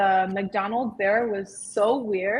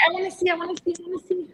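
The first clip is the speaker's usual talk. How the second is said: eager, high-pitched pleading; can't wait, want to see it now; excited; 8 semitones higher, 6 dB quieter, much faster than usual. Real, not acted.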